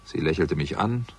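calm, even narrator's read; story narration. A narrator's reading. Detective narrating his bus ride to the pub. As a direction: tell the story looking back, unhurried. First-person narration between scenes.

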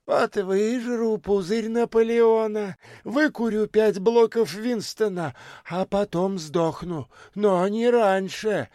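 высоко и медленно, с угрозой; пригрози с расстановкой; предупреждающая бомжиха. A narrator's reading. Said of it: "предупредила бомжиха". (бомжиха предупреждает бомжа, с угрозой)

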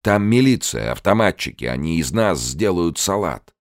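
high, loud heated argument; angry retort. Acted. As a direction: shout down the idea. Angry arguing.

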